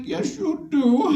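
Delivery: high, slow, laughing tease; teasing high voice. Retold or imitated. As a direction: drag it out high and mocking. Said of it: "I'm like".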